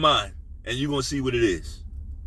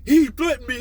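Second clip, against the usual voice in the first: higher-pitched mock complaint; mock accuser; 8 semitones higher, 4 dB louder than usual. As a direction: imitate someone telling on you. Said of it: "A motherfucker can say".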